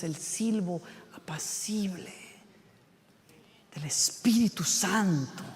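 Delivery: hushed whisper of God's gentle voice; soft unvoiced whisper. Shown as a demonstration. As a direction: breathe it like a secret. Whispering the still small voice.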